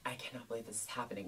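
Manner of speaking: fast, soft hurried aside; whispered aside. Retold or imitated. To her husband mid-exam, a fast soft aside. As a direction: say it under your breath, quickly.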